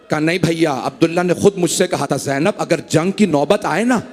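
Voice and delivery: measured, grieving majlis narration; mourning recitation. Acted. A majlis reciter telling the martyrdom to mourners, grieving recital.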